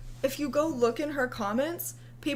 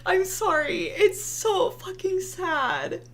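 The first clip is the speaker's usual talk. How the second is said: mock pity; 7 semitones higher, slower than usual. Real, not acted. Mock pity over her tweet.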